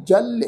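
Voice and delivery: "ਜਲ" ending in a short i-a glide; half-yayya sound. Shown as a demonstration. Teacher showing the formula, "ਜਲ" with a short i-a after l. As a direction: glide lightly off the l of "ਜਲ". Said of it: "formula ਹੈ ਸਿਹਾਰੀ plus ਐੜਾ".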